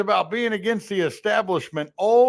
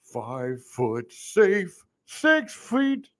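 slow comedian bit; 3 semitones higher, much slower than usual. Retold or imitated. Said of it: "That's what Jim Brewer said".

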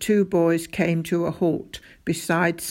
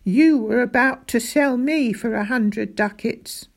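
higher-pitched indignant accusation; mild, building outrage; getting angry; 6 semitones higher, 3 dB louder than usual. A narrator's reading. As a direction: accuse with rising anger. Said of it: "getting angry".

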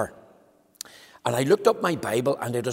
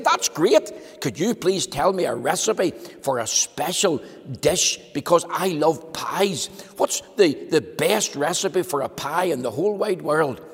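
eager Mister Greedy; 3 semitones higher than usual. Acted. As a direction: gush with greedy delight. Greedy man asking for pie recipe.

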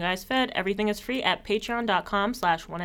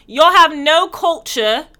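louder, higher, slow sneering quote; slow, loud mocking diaspora voice; mocking diaspora critic; 7 semitones higher, 9 dB louder, slower than usual. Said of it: "They be like".

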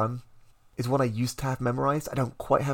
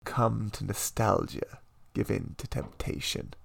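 tempting whisper; 4 semitones lower, 5 dB quieter than usual. Acted. Tempting the listener to stay.

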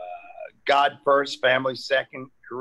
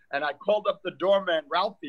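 ordinary talk, nothing marked

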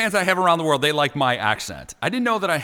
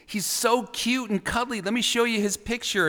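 high, softer playful protest; mock pleading excuse; 8 semitones higher, 4 dB quieter than usual. Host pretends to explain himself to offended people, high mock plea. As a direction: plead innocence in a raised, lighter voice.

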